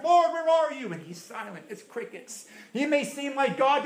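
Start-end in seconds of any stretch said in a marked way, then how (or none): 0.0-0.9 loud, high desperate cry; shouting prayer. Acted. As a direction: cry out into silence.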